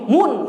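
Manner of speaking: "mun" said with a u vowel; wrong vowel demo. Shown as a demonstration. Teacher mocking a worse misreading, wrong vowel.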